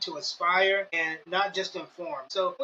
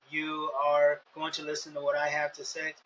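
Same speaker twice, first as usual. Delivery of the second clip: robotic monotone; 4 semitones lower than usual. Shown as a demonstration. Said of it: "talking like a robot".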